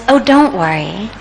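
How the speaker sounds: mildly calm retold reply; understated calm, as if nothing is wrong. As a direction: reassure them, lightly acting an unworried man. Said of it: "the third man says very calmly".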